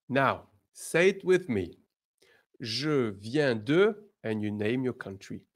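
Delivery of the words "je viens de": ordinary talk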